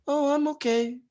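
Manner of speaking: soft, deflated mumble, barely audible; voice gone low. Retold or imitated. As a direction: shrink away as you say it. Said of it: "Our voice gets low".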